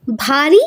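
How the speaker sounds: भारी said heavy, the stressed beat; teacher voices भारी as a heavy beat; stressed syllable. Shown as a demonstration. Teacher demonstrating a heavy beat to students, stressed. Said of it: "इसका pattern होता है".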